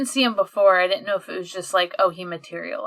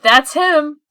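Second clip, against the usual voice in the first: mock excited shout; 7 semitones higher, 10 dB louder than usual. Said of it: "and is like".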